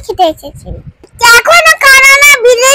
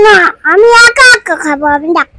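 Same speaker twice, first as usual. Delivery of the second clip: crying; 4 semitones lower than usual. Real, not acted. Child angry at restaurant.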